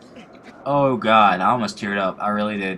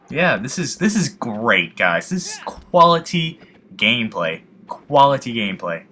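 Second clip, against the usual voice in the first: slow, mock-proud sarcasm; sarcastic praise. To viewers about bad gameplay, dry sarcasm. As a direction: oversell it, deadpan irony. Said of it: "I'm kidding".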